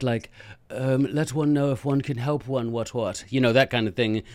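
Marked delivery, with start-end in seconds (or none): 1.1-3.2 hammed-up toff, lightly voiced; mock posh British. Teacher mocking aristocratic politeness, mild posh British. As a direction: tease the stiff English aristocrat. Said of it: "very British and polite".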